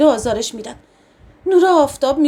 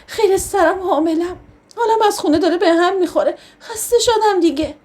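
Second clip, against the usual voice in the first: crying complaint; 4 semitones higher than usual. Acted. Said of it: "ناگهانی زدم زیر گریه".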